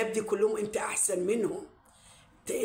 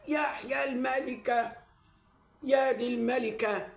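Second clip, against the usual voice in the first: sarcastic mock; 2 semitones higher, slower than usual. Real, not acted. Mocking the woman who calls herself queen.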